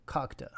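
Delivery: French 'character' run together as 'cockta'; 'cockta', the French word joined up; French pronunciation. Shown as a demonstration. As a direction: say 'cockta' with open French ah vowels. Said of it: "more in French".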